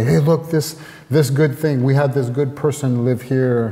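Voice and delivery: imitated eager showing off. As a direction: imitate locals keen to show off something good. Imitating locals eagerly showing off their city.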